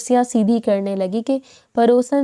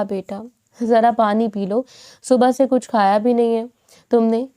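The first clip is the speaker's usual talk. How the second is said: gently, tender. Acted. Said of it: "نرمی سے کہا".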